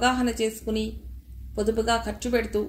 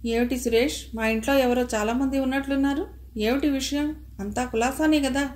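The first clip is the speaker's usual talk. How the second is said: a touch of worry, pitched up; slightly anxious; 3 semitones higher than usual. Acted. Krishnamurthy asks Suresh about the crowd, mildly anxious. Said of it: "రవ్వంత ఆదుర్దాగా".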